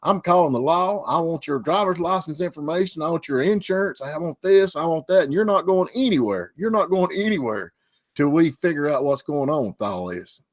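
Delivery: imitating a bossy, hateful driver making demands; mock hateful woman. Rear-ended woman scolds the driver, mildly mocked anger. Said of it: "Boy, she was hateful".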